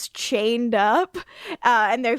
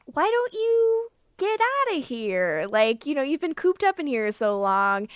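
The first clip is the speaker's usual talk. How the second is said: caring Fred; 3 semitones higher than usual. Retold or imitated. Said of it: "and she's like".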